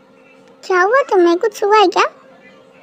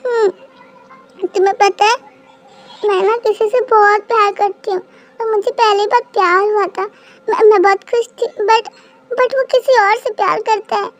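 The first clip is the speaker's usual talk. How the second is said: acted crying. Girl tells the man who loves her about her heartbreak, teary. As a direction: confess heartbreak through light tears. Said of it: "तुम रो रही हो क्या".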